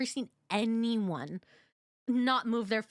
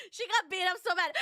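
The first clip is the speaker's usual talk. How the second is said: high voice breaking into laughter; laughing through words; 8 semitones higher than usual. Real, not acted. Viewer repeating the movie's absurd story, laughing helplessly. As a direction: get it out while cracking up.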